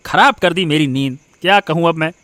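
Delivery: irritated at being woken; grumble, dragging out the mocked question; annoyed grumble. Husband woken by wife's question, grumbling.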